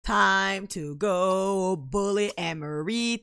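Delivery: drawn-out, gleeful declaration; playful announcement. Pretend. Gamer announcing her bullying plan, playful drawl. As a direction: stretch it out, very slowly.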